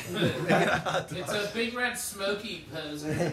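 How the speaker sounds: distant voice, away from the mic; far from mic. Real, not acted. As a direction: speak from across the room, laughing. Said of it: "sounds like he's far away".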